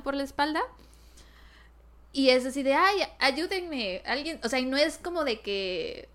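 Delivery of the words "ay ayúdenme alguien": high, slow mock plea for help; damsel pleading. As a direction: whine it like a helpless damsel. Retold a character's weak plea. (súplica exagerada y lenta)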